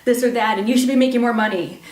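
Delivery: imitating a harsh inner critic; mock scolding. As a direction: berate the little child, quick and sharp. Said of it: "Could you say".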